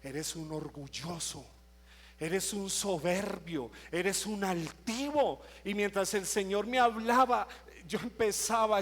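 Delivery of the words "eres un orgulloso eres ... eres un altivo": slow, weighty accusation, each word set down; solemn slow indictment; God's stern verdict. Retold or imitated. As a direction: pronounce judgment slowly and firmly. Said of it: "qué me empieza a mí decir el Señor".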